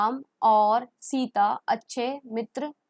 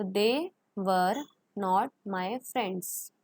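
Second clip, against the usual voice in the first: slow model sentence; much slower than usual. Shown as a demonstration. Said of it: "model sentence".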